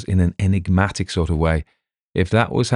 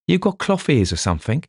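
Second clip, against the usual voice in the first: savage; 9 semitones higher than usual. Acted. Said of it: "he asked Inspector Threlfall savagely".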